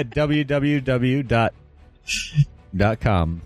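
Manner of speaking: slow choppy robot voice; words spaced out like spliced audio. Pretend. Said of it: "it sounds like you didn't know what you were saying".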